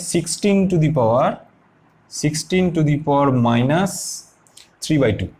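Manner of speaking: dragged-out dictating pace; slow dictation. Shown as a demonstration. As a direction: say it slowly so students can write it down. Teacher dictating the expression slowly.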